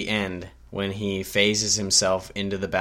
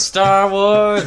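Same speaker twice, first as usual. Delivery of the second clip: excited shout; 10 semitones higher, 9 dB louder than usual. Real, not acted.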